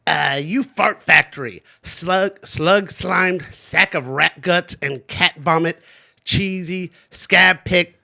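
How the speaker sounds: lightly voiced cartoon brat, drawn-out insults; Eric Cartman. Player reading a quote for a guessing game, in character. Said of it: "the accent or character is Eric Cartman".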